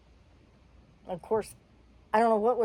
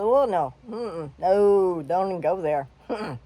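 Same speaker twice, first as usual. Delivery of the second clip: louder, firm no-way; a louder retelling of refusing to leave Paul; defiant refusal; 5 dB louder than usual. Real, not acted. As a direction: put your foot down with the staff. Defying staff who forbid staying.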